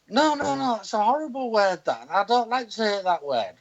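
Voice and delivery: high-pitched protesting imitation; scandalised objection. Man imitating a woman shocked at his swearing, scandalised.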